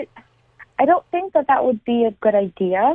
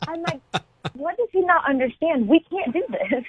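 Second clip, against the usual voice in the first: laughing disbelief; 5 semitones higher, 3 dB quieter than usual. Real, not acted. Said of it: "Oh, my God".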